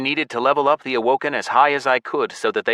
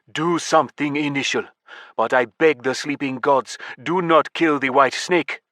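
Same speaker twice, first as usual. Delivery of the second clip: urgent, higher pleading plea; 4 semitones higher than usual. Acted. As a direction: beg him, a little frantic. Yemi shakes narrator, pleading.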